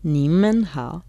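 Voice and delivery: slow careful repeat of "你们好"; repeating Mandarin. Shown as a demonstration. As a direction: echo "你们好" slowly, syllable by syllable. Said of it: "podemos decir así".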